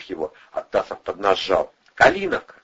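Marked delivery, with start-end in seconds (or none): 1.9-2.6 very high, loud shout. A narrator's reading. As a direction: yell the sign name out. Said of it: "прокричал Андрей".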